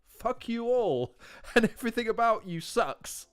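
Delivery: lightly imitating the Liverpudlian rapper; mock Liverpudlian accent. Retelling the rapper's opening line to the Canadian crowd, a hint of Liverpudlian accent. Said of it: "a Liverpudlian accent this thick".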